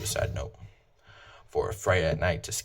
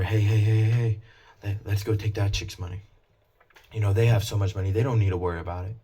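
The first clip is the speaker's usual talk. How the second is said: a hammed-up thief plotting to take someone's money; scheming robber; 3 semitones higher, 5 dB louder than usual. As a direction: egg your buddy on to go grab the cash. Voicing a would-be robber.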